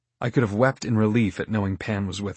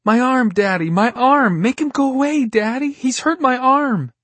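high, loud, sobbing wail; wrenching sobs; 6 dB louder than usual. Acted. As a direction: cry out between sobs. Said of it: "Addie's wrenching sobs filled the air".

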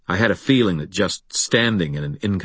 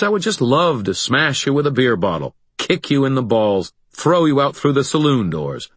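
mocking; 3 semitones higher than usual. Harry mocks the monster.

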